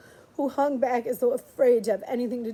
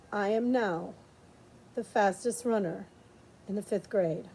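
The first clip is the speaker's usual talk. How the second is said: soft, faraway whisper of a memory; barely voiced, remembering her words; hushed memory; 4 semitones lower, 6 dB quieter than usual. Jess hearing Leslie's voice in his head, soft.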